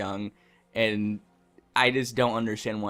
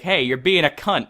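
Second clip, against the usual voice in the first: loud rebuke; 5 semitones higher, 9 dB louder than usual. Retold or imitated. Acted rebuke before a smack.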